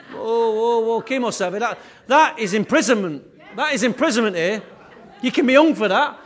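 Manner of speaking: loud, high, laughing protest; laughing mock outrage. Real, not acted. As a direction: play up the shock through laughter.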